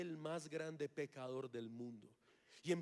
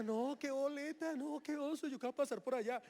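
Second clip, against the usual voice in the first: retold panic; 7 semitones higher than usual. Panicking about walking the gauntlet.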